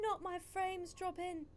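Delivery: high, slow, loud lament; mock panic. Real, not acted. Streamer lamenting dropped frames, mock panic. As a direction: wail it dramatically, stretched out.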